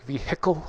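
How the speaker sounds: "vehicle" with heavy stress on "hickle", rising; Wisconsin vehicle. Shown as a demonstration. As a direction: lean hard on the "hickle" in "vehicle". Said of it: "way too much emphasis on the hickle".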